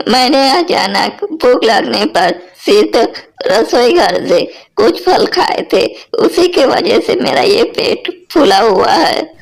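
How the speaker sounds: high, urgent mother-in-law begging to be saved; mother-in-law frightened by her swollen belly; panicked pleading. Acted. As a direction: plead with the daughter-in-law in alarm. Mother-in-law panics, begs for help.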